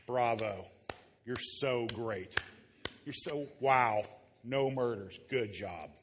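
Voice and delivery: mock praise, dripping with sarcasm; a lightly done sarcastic Jesus, fake applause. Pastor imitating Jesus mocking smug non-murderers, sarcastic. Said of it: "That's my sarcastic Jesus impression".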